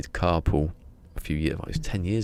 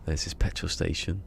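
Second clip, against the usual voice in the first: a shaky-skilled stab at Australian; attempted Australian accent. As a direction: try out an Australian accent, not quite landing it. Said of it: "I'm trying to do an Australian accent".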